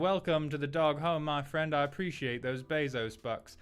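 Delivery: high, posh snob voice reading chat; the snobby aristocrat thanking subs; haughty old British aristocrat. Acted. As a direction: stay the pompous rich Brit. Keeps reading chat in character.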